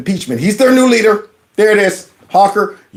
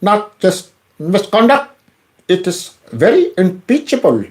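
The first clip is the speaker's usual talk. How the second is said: mocking imitation. To viewers, mocking the congressman's delivery. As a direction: parrot his words back with a sneer. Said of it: "You hear that?".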